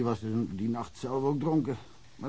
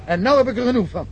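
loud, high burst of exasperation; sudden loud exasperated outburst; fed up; 10 semitones higher, 8 dB louder, faster than usual. Acted. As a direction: throw up your hands, done with it. Fed up, ends the talk.

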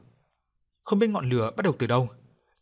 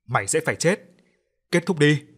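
gritting teeth; 3 semitones higher, 4 dB louder than usual. Acted. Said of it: "Tiếng Huyền nghiến răng ken két".

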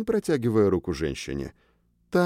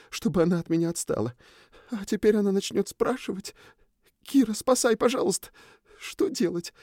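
put-on higher, begging young man in a rush; pleading; 10 semitones higher than usual. A narrator's reading. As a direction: plead for rescue in a panic. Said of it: "забормотал с умоляющим видом".

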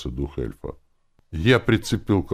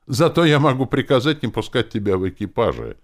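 high, loud overruling retort; angry threat; 8 semitones higher, 7 dB louder than usual. A narrator's reading. Druid threatens to bar Lenora, angry. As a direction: pull rank in a raised voice.

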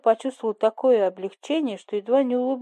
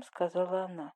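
plain reading voice

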